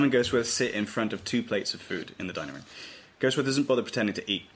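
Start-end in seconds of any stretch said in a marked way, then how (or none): none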